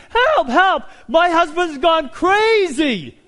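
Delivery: very loud, high, slow cry for help; a wife yelling to the neighbors for help; frantic scream. Acted. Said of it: "screaming for her neighbors".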